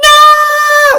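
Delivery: put-on whiny, childish "no", very high and loud. Imitating a young lion's cry from a film remake: imitating a whiny no. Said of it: "Simba's no sounds like this".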